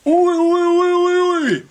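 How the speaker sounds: high, loud mock shouting of oi; calling out. Protester in Superman costume yelling to distract police. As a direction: bellow to draw the police away.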